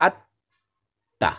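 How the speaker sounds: আত্মা very slow with a long held ত; doubled consonant. Shown as a demonstration. Teacher stressing the doubled sound to pupils, very slowly. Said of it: "সেটাকে দুইবার উচ্চারণ করতে হবে".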